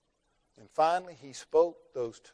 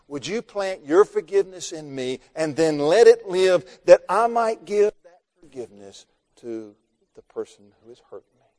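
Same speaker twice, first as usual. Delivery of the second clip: loud, higher impassioned plea to God; raised-voice pleading from the pulpit; fervent prayer; 4 semitones higher, 13 dB louder than usual. Acted. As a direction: cry out a prayer with full force.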